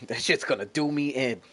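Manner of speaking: chuckling through the words; laughing. Real, not acted. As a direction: laugh it out while saying it. Repeating his salt joke with a laugh.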